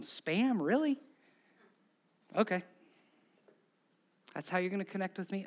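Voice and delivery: lightly incredulous, pitch jumping up on "really"; a touch of comic bafflement, voice rising; mock disbelief. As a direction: question it as if you can hardly believe it. Acts Jesus baffled at the table.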